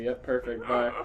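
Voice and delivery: normal talking voice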